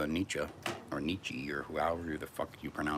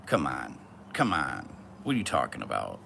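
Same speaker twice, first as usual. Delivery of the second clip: mock exasperation; 3 semitones lower, 5 dB louder than usual. Feigned disbelief at the viewer.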